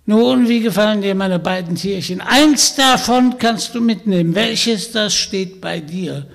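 put-on high, loud croaky old witch voice; croaking witch. Witch inviting Vanya home, croaking and sly. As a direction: play the sly old hag inviting him along.

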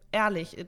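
ehrlich drawn out slowly with weight; stress on ehrlich. Shown as a demonstration. Explaining what honesty means to her, slow stress on ehrlich. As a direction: lean on ehrlich, stretch it. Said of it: "die Betonung liegt auf ehrlich".

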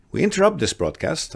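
booming news-bulletin announcer; old radio announcer. Pretend. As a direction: cut in like a breaking radio bulletin. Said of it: "I always wanted to say this".

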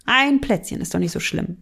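a lightly voiced, hushed temptation; tempting inner voice. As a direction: talk yourself into just one cookie. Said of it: "du denkst".

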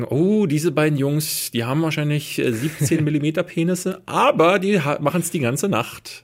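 swooning housewife. Pretend. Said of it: "die werden sich denken".

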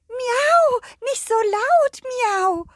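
high meowing cat voice. Acted. The cat scolds the dog for being loud, meowing cat voice. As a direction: speak like a fussy cat, meow and all.

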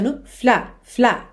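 "fla" said as one firm, separate beat; isolated, emphatic "fla"; stressed syllable FLA. Shown as a demonstration. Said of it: "a sílaba tônica".

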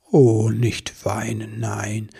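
slow, soothing Santa; gentle. Acted. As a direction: gently comfort someone close to tears. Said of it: "sagte der Weihnachtsmann sanft".

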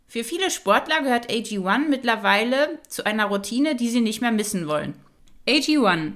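upbeat sponsor ad read; infomercial. Acted. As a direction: read it like a polished radio ad. Host reads sponsor ad.

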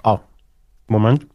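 talking around an ice cube; words round a cube of ice; ice in mouth. Real, not acted. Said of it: "Wir haben einen Eiswürfel im Mund". (mit Eiswürfel im Mund)

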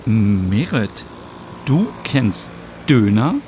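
slow, surprised question; astonished. Acted. Stina astonished that her friend knows döner, surprised question. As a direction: ask in mild amazement, drawing it out. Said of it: "Stina fragt erstaunt".

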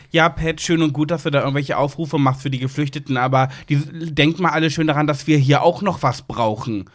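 höher, herablassend zitiert; spöttisch nachgeäfft. Retold or imitated. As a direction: die Hater leicht spöttisch nachmachen. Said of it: "wo mir Leute geschrieben haben". (leicht nachgeäffter Hasskommentar)

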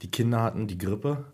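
hoarse, failing sick voice; talking with almost no voice left; voice giving out. Real, not acted. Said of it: "wenn meine Stimme versagt".

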